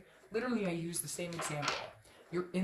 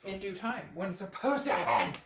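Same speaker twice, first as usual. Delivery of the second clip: mock pronouncement, building louder; voice of the universe; 4 dB louder than usual. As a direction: lightly play the universe, swelling to the end. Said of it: "This is the universe saying".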